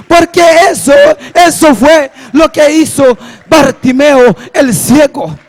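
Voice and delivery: rousing pulpit exhortation; driving, emphatic preacher delivery; full-force preaching. Real, not acted.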